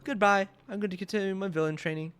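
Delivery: strut like a cartoon supervillain; hammy villain announcement. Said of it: "Villain bird".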